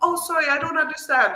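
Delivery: very sweet, sugary manner. Retelling feigning not to understand Italian: imitating own very sweet tone. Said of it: "I've played it in a very sweet way".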